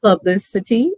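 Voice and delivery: PUBLICITY sounded out syllable by syllable; careful, deliberate PUBLICITY; slow, careful pronunciation. Real, not acted. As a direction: say PUBLICITY slowly, lifting at the end. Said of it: "I have to say it slow".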